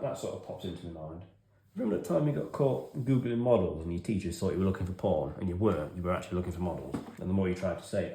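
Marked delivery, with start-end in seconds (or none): 1.7-7.0 mocking inner voice. His brain reminding him of the episode, mocking. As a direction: rub it in playfully.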